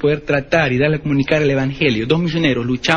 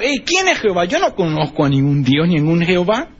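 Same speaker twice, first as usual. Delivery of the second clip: scornful Pharaoh; 3 semitones higher than usual. Acted. Pharaoh scorns the unknown God.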